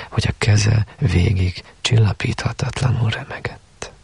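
quoted novel read in a hushed voice; hushed story reading. A narrator's reading. Reads quoted passage from the novel.

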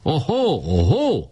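high jeering ohó; protesting shout. Acted. Opposing boys protesting, high jeering cries. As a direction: jeer it back high. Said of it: "kiáltott az ellenpárt".

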